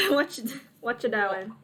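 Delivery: trying out an Australian accent; light Australian accent; Aussie accent attempt. Shown as a demonstration. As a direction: have a tentative go at sounding Aussie. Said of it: "I want him to sound Aussie".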